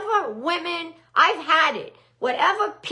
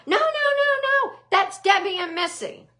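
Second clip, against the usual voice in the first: imitating Jill; 5 semitones higher than usual. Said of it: "all you hear is Jill going".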